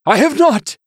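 very high, loud, hasty denial; a bishop chokes out a lie; choked-out denial. A narrator's reading. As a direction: blurt it too quickly. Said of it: "the man choked out, too quickly".

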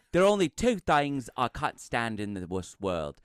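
Nigel Powers impression. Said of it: "So I am gonna do Nigel Powers".

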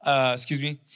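sarcastic. Retold or imitated. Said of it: "And it's sarcastic".

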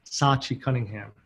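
measured, scripted episode introduction; podcast intro read. Real, not acted. Host introduces the episode to listeners, scripted intro read. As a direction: read it as a polished show opener.

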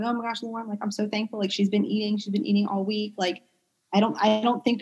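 soft, choked-up gratitude retold; quietly moved, close to tears; imitating tearful grateful parents; teary thanks. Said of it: "had tears in their eyes".

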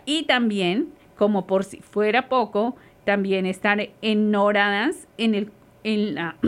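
speaking through a face mask, short of air. Real, not acted. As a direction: talk muffled by a mask, catching breath. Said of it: "con el tapabocas se le va a uno el aire".

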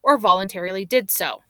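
measured, dramatic case narration; true crime narrator. Acted. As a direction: read it like a true crime podcast host. Reads the case intro.

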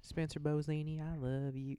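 light imitation of a sweet Southern drawl. Teacher confessing love to student, in a mild Southern drawl. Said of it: "She talks like this".

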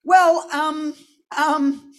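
hesitant, giggling, caught out; sheepish laughing stall. Retold or imitated. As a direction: laugh through the awkward excuse. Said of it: "And I'm like".

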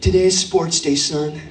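low, slow American parent pep talk; hammed-up American dad, pitched low; American accent. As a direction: reassure a child in a drawn-out American accent. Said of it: "put on the American accent for the crack".

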